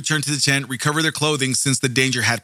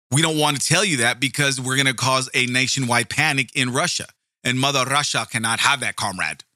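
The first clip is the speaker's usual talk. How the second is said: bad Russian accent; 3 semitones lower than usual. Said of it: "that was a horrible Russian accent".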